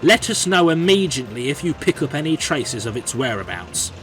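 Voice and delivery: urgent briefing. Acted. Controller warning staff about a ghost engine, urgent briefing. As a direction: issue orders as if every word matters.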